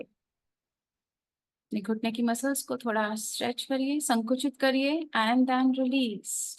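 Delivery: unhurried yoga nidra guidance with long pauses; guided relaxation. Real, not acted. Yoga teacher guiding listeners through left-leg relaxation, calm guided-meditation voice. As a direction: talk them through relaxing, drawing out each release.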